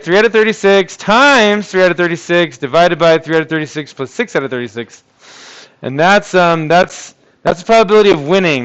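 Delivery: talking through a face mask; muffled voice behind a mask. Real, not acted. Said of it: "If I sound muffled, I'm still wearing a mask".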